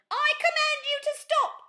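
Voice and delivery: high, loud commanding shout; loud, high battle command. Acted. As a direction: order the beast to stop. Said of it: "shouted Kevin".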